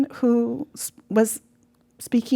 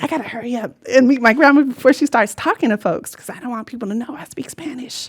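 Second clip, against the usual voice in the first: put-on anxious child; 3 semitones higher, 4 dB louder, faster than usual. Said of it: "I would be like".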